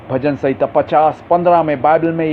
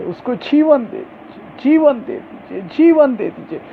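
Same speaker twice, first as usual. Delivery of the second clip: pleading wail; 4 semitones higher than usual. Retold or imitated. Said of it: "पुकारना चालू किया ... रोना ... विलाप करना".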